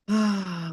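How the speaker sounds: soft, satisfied "ah"; feel-good sigh. Shown as a demonstration. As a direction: breathe out a sigh of contentment. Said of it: "we feel good".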